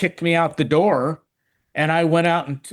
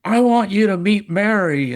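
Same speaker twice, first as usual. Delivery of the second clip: proud introduction; 6 semitones higher than usual. Retold or imitated. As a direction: show her off with pride. Proudly introducing his new fiancée.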